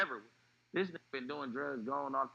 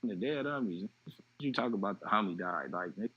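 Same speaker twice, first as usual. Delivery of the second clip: louder, incredulous protest; retold disbelief; 4 dB louder than usual. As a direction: brush off the news, refusing to believe it. Disbelief at news of death.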